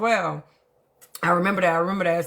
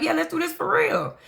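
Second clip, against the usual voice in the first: excited crowd reply; 12 semitones higher than usual. Retold or imitated. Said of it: "they was like".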